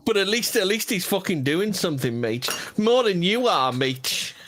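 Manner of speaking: half-hearted impression of a smug defender; mock Charlie. Friend imitating Charlie defending Collett, lightly voiced. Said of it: "Charlie would still go".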